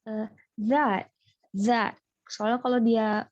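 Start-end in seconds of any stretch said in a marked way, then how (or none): 0.6-2.0 that pronounced za not th; that with a z sound. Shown as a demonstration. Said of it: "dia tuh dibacanya".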